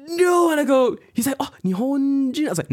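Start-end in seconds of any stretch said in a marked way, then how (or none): 0.1-0.5 high, loud shocked gasp of no; stunned disbelief. Retold or imitated. Partner's shocked reaction retold. 1.4-2.5 high and loud disbelieving; shocked disbelief. Retold or imitated. Partner's shocked reaction retold.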